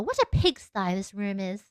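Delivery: someone's mother with a mock British accent; lightly put-on British-esque accent. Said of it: "Why do I sound like someone's mother?".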